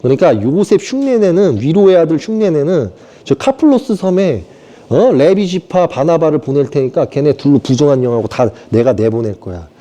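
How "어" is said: ordinary delivery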